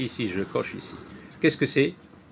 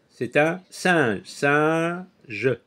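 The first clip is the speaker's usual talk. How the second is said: slow teaching delivery; much slower than usual. Shown as a demonstration. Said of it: "C'est ici que j'entends le son un".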